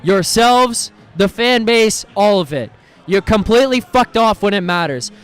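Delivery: heated rant. Real, not acted. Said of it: "absolute heater rant right there of just snapping".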